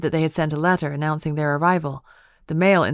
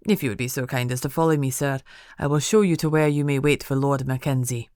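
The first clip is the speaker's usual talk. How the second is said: lightly voiced formal butler, a bit quick; a hint of a stiff butler showing guests in; 2 semitones lower than usual. Butler ushering the guests in, lightly formal.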